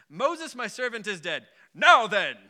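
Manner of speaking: a light mock British accent, dignified and stately; dignified British man. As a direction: play God as a dignified British gentleman, lightly done. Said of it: "like, dignified British man".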